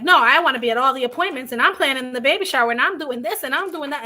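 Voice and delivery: rattling off plans in a hurry; eager rush. Retold or imitated. Eager over-involved sister quoted.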